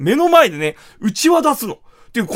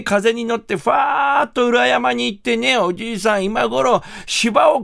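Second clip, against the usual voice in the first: hammed-up building telling; 4 semitones higher, slower than usual. Fart drifts to the mountain.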